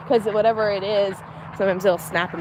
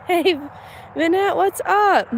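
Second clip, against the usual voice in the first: slow pet greeting; 9 semitones higher, slower than usual. Real, not acted. Greeting an animal.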